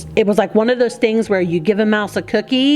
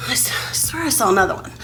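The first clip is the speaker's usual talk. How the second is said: fast, hushed whisper to herself; 4 dB quieter, faster than usual. Real, not acted. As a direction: whisper it under your breath quickly. Searching behind the couch.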